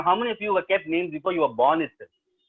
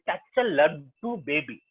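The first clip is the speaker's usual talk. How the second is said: cooing nurse; slower than usual. Retold or imitated. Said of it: "that nurse said".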